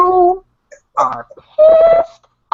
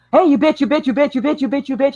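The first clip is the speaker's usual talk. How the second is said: mocking taunt; 5 semitones higher, faster than usual. Retelling how trolls taunted her, mocking chant. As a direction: needle her like a playground bully. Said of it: "it's like".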